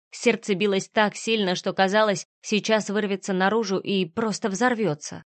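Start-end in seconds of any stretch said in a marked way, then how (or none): none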